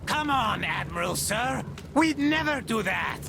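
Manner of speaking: high-pitched, wounded denial; pleading protest. Acted. Crewman denying he would abandon the admiral, protesting. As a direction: protest your loyalty in a high voice.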